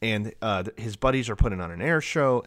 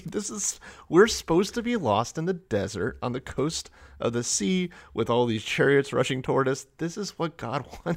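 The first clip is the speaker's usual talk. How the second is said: high-pitched, unconvincing mock reassurance; Moses; 5 semitones higher than usual. Moses explaining chariots rushing toward them, mock panic. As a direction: justify it in hammed-up desperation. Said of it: "that's what I see here".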